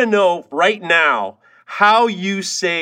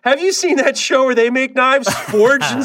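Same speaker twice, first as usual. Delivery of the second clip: lightly mimicked eager onlooker, rising higher; mock-enthusiastic small talk, pitched up; gushing acquaintance; 5 semitones higher than usual. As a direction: imitate someone excitedly suggesting it. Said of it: "When people say".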